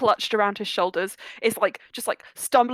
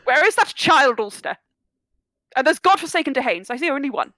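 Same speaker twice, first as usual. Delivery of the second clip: put-on very old man; 3 semitones higher, 3 dB louder, faster than usual. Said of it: "ancient old man".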